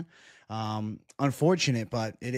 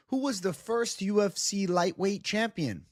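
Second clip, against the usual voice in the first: higher, game-show quizmaster ask; quiz host voice; 7 semitones higher than usual. Pretend. Streamer quizzing chat, mock quiz host.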